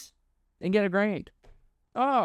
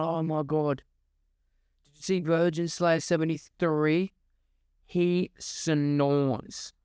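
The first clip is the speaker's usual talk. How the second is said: mock schoolkid; 6 semitones lower, slower than usual. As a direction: gush like a kid at school. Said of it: "and going".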